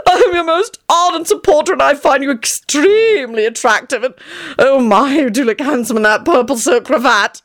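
high, theatrical fawning; excited gushing. A narrator's reading. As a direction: gush with swooning admiration, pitch way up. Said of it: "he gushed excitedly".

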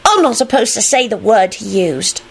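self-righteous tattletale, pitched high. A narrator's reading. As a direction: tell on them primly in a high voice. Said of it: "he finished self-righteously".

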